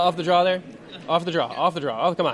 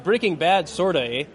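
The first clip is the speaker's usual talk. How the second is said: put-on polite Canadian accent. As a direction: joke Canadian accent with a tagged-on "eh". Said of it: "Canadian version".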